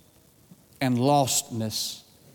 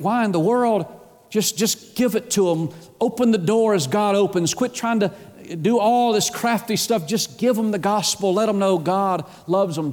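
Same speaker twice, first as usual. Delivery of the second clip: higher, insistent pulpit appeal; urgent preaching; 5 semitones higher than usual. Real, not acted. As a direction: press the point with impatient urgency.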